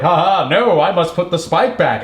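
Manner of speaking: lightly hammed-up hero delivery; cartoon superhero. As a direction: declaim it like a corny cartoon hero. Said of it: "he literally is delivered like that".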